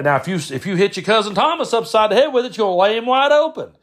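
high, blunt warning, imitated; Brad impression. Brad shows a kid the machete's danger, blunt impression. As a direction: warn bluntly, pitch climbing through the line. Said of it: "He was real blunt, real direct".

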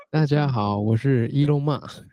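slow foreigner Mandarin; foreigner speaking Mandarin. Pretend.

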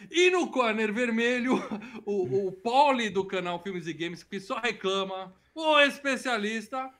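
lighter ring announcer intro, laughing; brash fight promoter hype. Acted. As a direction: announce the red corner with a chuckle. Second host introduced like a boxer.

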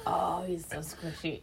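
soft, slow and doting; sweet nothings. Retold or imitated. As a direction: coo it lovingly. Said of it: "it was like".

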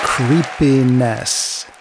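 very slow, eerie drawn-out word; spooky title read. Acted. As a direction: stretch it out to give a chill.

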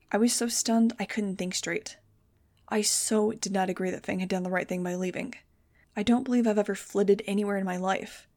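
steady story reading; audiobook narration. A narrator's reading. Narrator reading a teen adventure chapter, steady. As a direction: read the chapter to listeners. Reads novel chapter aloud.

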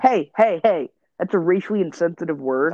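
loud playful reprimand; hey hey, cut it out; mock scolding. Scolding co-host for name.

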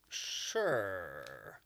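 mock-suave yes; knowing drawn-out agreement. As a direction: stretch it out and let it slide down. Acted reply, long sliding drawl.

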